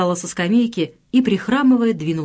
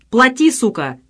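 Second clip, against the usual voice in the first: louder barked threat; thug's demand; 6 semitones higher, 5 dB louder than usual. A narrator's reading. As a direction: bark the order at her. Thug extorting trader.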